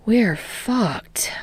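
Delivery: whispered dread, unvoiced. A narrator's reading. Denki whispering to the class in dread. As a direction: breathe it out in a whisper. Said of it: "Denki whispers".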